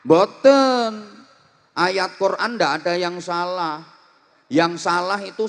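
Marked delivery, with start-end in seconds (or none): 0.0-0.9 loud high no; sudden loud denial; emphatic no. Real, not acted. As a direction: bark out the answer. Preacher answers own question loudly.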